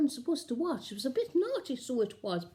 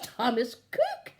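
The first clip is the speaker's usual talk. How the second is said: excited thought; 3 semitones higher, 4 dB louder than usual. Retold or imitated. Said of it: "I thought to myself".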